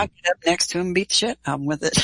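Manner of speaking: quick, laughing delivery; laughing through it. Retold or imitated. Recalling her bold threat to intruders, laughing. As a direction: blurt it out while cracking up. Joking about beating intruder with shotgun.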